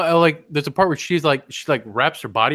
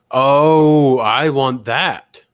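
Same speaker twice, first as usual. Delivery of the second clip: loud, drawn-out retold swoon; stretched-out lustful "oh"; smitten; 4 dB louder, much slower than usual. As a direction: savor it slowly, mock smitten. Retold friend's instant attraction.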